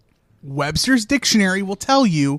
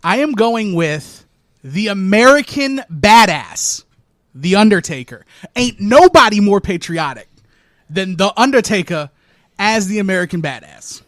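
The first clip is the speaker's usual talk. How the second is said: hyped announcement; 5 dB louder than usual. Pretend. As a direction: proclaim the pick with swagger. Dramatic reveal of top pick.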